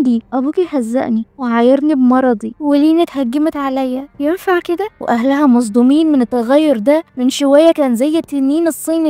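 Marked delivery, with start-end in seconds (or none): 0.3-4.9 put-on a grown man whimpering like a kid; childish whine. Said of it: "بكل طفولية". (نبرة طفولية خفيفة)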